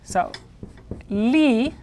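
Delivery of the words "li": "li," held long and higher, like lee; first syllable alone. Shown as a demonstration. Teacher isolates the first syllable of libro, drawn out. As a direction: sound out "li," by itself, drawn out. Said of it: "now the second syllable is".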